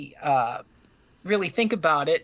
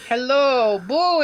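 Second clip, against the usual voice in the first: spooky whisper; 5 semitones higher, 7 dB louder, slower than usual. Pretend. Spooky Halloween greeting to co-host.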